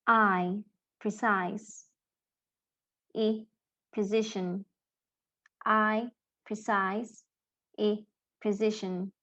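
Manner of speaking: long I in "Precise", short "ih" in "Position", each sound said alone first; teacher alternates "Precise" with eye and "Position" with a short i; vowel contrast. Shown as a demonstration. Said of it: "Can you see and hear? It's very different".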